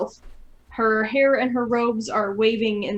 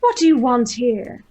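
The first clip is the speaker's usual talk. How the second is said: louder, booming banshee threat; dark lord; 2 semitones higher, 5 dB louder than usual. Acted. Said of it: "and say".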